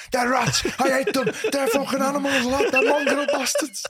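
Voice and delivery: a cabbie suddenly raging about Everton; mock furious rant. Cabbie turns furious within minutes.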